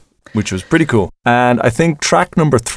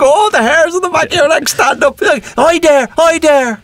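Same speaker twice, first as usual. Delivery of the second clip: thrilled. Retold or imitated. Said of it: "it's like".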